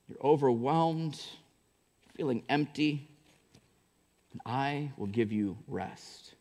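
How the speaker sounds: gentle invitation in a hushed voice; quiet, tender reading of Jesus's words. Acted. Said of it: "he says this in Matthew".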